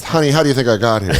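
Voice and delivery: lightly sassy patient quip. Acted. Terminal patient answering the ecstasy offer, lightly sassy. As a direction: play it as a mildly sassy comeback. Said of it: "He's still sassy".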